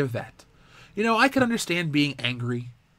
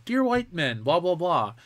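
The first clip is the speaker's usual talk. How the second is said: higher mock of a preachy video; mocking MTV video; 4 semitones higher than usual. Host mocks MTV's video for viewers, higher voiced. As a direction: sneer it like a preachy ad.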